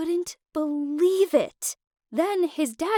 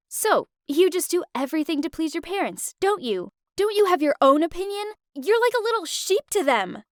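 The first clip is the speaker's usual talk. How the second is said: high, fast, mocking reproach; scornful anger; 5 semitones higher than usual. Lou mocking Mark for pleasing his parents, scornful. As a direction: needle him for obeying his parents.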